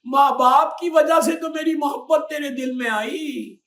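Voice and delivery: loud, high rebuke; a stern Imam's shouted rebuke; scolding Imam. Retold or imitated. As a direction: scold the disobedient child. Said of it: "मौला बोलेंगे".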